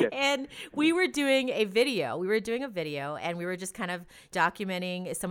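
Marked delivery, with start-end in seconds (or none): 0.1-2.2 words spilling out through real laughter; laughing. Real, not acted. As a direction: laugh while saying it, higher and louder.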